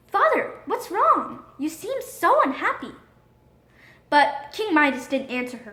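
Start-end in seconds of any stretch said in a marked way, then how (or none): 0.1-2.9 a daughter gently asking her troubled father; worried daughter. Acted. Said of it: "Marigold asked".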